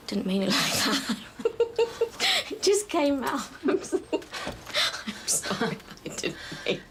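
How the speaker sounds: apology broken up by laughter; helpless giggling. Acted. Friend apologises to Nesta for what came out, giggling. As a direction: try to say sorry but keep cracking up.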